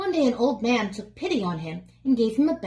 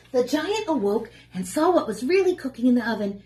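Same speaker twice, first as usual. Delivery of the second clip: story narration; 2 semitones higher than usual. A narrator's reading. Reads story to children.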